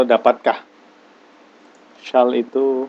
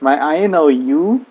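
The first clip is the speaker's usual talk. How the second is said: slow model sentence; 3 semitones higher, 3 dB louder, slower than usual. Shown as a demonstration. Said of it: "teacher models the English sentence".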